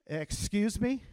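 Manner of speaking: drawn-out indignant question with a rising end; affronted, rising "excuse me?"; challenging retort. Shown as a demonstration. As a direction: throw it back as a challenge. Leads audience in the catchphrase.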